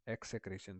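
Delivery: teacher's careful repeat of एक्सेक्रेशन; pronunciation demo. Shown as a demonstration. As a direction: repeat एक्सेक्रेशन as ek-se-KRE-shan. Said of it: "इसकी जो pronunciation है".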